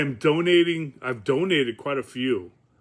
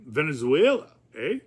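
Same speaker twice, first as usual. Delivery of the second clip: lightly attempted Canadian accent with a tacked-on "eh"; half-hearted stab at a Canadian or surfer accent; a touch of Canadian accent. Shown as a demonstration. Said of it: "surfer accent. Or that my Canadian accent".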